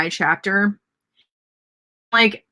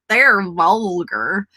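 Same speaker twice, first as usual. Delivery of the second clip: aunt's verdict; much slower than usual. Retold or imitated. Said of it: "I just think".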